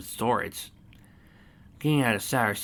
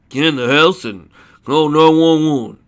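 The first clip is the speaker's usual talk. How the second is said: loud, raised-pitch command; forceful emergency yell; urgent shouted order; 6 semitones higher, 14 dB louder than usual. Acted. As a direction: shout her to safety. Boy orders chased neighbour to safety.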